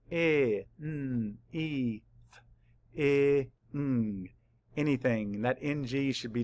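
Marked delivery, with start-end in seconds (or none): 0.1-4.3 "I, n, e, th, i, ng" as separate sounds; sounded out. Shown as a demonstration. Teacher mapping the sounds of anything, sounded out. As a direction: segment it, humming the n and ng. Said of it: "Map the sounds".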